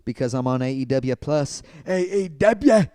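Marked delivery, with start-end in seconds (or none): 1.9-2.8 excited shout. Acted.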